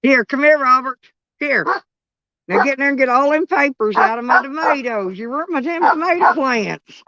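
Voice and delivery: grandma calling Robert over to scold him. Real, not acted. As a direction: order him over, then chew him out.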